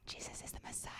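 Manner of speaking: breathy whisper into an ear. Shown as a demonstration. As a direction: pass the secret on. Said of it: "I'm gonna whisper in someone's ear".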